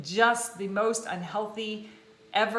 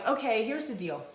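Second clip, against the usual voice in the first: mock bossy trainer; 3 semitones higher than usual. Shown as a demonstration. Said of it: "I'm not one of those people".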